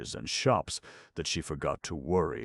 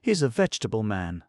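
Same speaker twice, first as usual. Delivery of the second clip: put-on higher, louder indignant girl; indignant protest; 7 semitones higher, 7 dB louder, faster than usual. Betsy defending Carter to the Pasha, indignant. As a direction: stand up for him, offended. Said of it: "protested Betsy indignantly".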